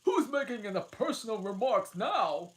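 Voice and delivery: high, loud gloating Hatter; triumphant. Acted. Hatter triumphing over Alice, high and loud. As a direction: crow over her. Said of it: "asked triumphantly".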